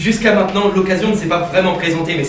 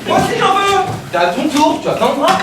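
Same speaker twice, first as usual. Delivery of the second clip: put-on high childish whine; 10 semitones higher than usual. Childish squabble over food.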